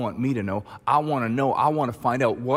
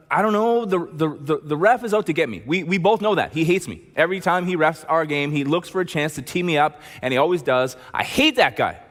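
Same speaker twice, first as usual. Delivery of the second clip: put-on louder, heated teen venting; mad player; 4 semitones higher, 3 dB louder than usual. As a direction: vent like a fed-up player. Player blames the ref.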